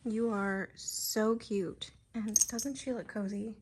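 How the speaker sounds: slow, soft cooing at a pet. Real, not acted. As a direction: coo it slowly to the cat. Cooing to the cat.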